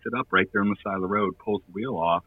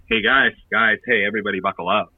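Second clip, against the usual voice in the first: louder, quicker shout to the guys in the back; rally the bandmates to buckle up, fast; calling out to the band; 6 dB louder than usual. Retold or imitated. Warning bandmates in the back of the van: louder, urgent call-out.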